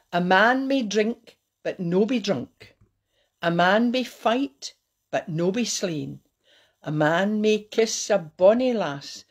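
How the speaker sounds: measured poem recital in broad Scottish; Scottish verse, phrase by phrase; best Scottish accent. Shown as a demonstration. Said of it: "trying to do it my best Scottish accent".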